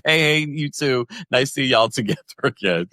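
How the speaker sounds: lightly put-on Queens accent. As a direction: say it like a New Yorker from Queens. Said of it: "in my Carlos Queens voice".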